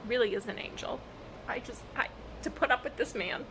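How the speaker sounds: whispered, worn-out aside. Real, not acted. Worn-out reader whispering about Cass, exasperated. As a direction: breathe it out in a whisper.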